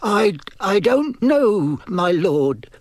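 high, halting, nervous servant; nervous stammer. A narrator's reading. Servant admitting ignorance to his lord, nervous. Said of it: "said the first voice nervously".

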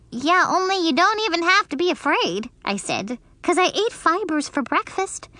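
put-on high fast childish voice; eager little girl. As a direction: beg him to watch. Junie B's voice in the story.

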